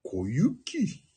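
小雪 breathed as a whisper; hushed 小雪; whispered Koyuki. Shown as a demonstration. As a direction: whisper the name dramatically. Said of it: "このイントネーションで何でも言うよ".

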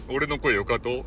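slightly odd cool-guy voice; mock-suave voice slipping into silliness; odd put-on voice. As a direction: lightly put on a funny voice. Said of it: "なんか変な声になっちゃった".

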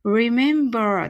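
remember with both r's rolled. Shown as a demonstration. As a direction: roll the first and last r in remember. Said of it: "Rの発音すべて巻き舌です". (rememberの最初と最後のRを巻き舌に)

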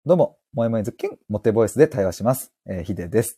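a hint of a cutesy self-introduction; mock charming intro. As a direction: lightly play up a hammed-up charm voice. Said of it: "萌え萌えズッキュンか". (軽くふざけた萌え萌えな自己紹介)

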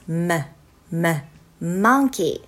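slow, separate m released from closed lips, then monkey; M phonics sound. Shown as a demonstration. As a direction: model m as a short hummed mm-uh before monkey. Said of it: "これがMになります".

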